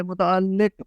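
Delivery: متعلق with doubled l and i, mu-ta-al-liq; zer and shadda. Shown as a demonstration. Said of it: "لام کے نیچے زیر ہے". (متعلق میں لام پر شد، نیچے زیر)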